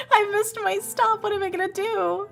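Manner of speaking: hammed-up distress, voice climbing high; mock panic. Twenty-year-old on the train who missed her stop, high mock panic. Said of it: "now I'm, like, panicking".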